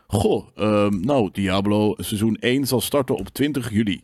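mock of a boring games presenter; dry news read. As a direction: read it like a dull newsreader. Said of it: "heel droog soort van".

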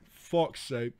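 ordinary talk, nothing marked

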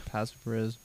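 very soft interjection; quiet aside. Real, not acted. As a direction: slip it in under the story. Muttered aside during the story.

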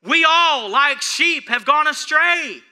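loud, high, slowing preacher's cry; rising preaching climax. Acted. Preacher proclaiming scripture to congregation, loud climactic preaching. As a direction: lift it up and slow the last words.

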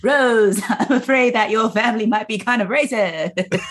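mock a stiff British leading man in a period film; Keanu Reeves Dracula accent. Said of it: "sounded like Keanu Reeves in Bram Stoker's Dracula".

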